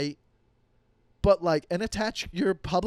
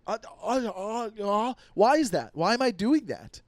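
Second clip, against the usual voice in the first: confused stammer; 4 semitones higher than usual. Retold or imitated. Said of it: "you're like".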